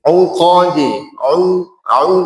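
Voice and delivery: 'UQADI with rounded, pouted 'u. Shown as a demonstration. Teacher drills the class, 'u with pouted lips. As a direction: pout the lips on 'u only.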